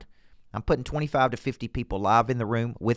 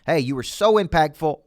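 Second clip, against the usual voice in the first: mock gushing; 5 semitones higher, 6 dB louder than usual. Voices a customer gushing to salesperson.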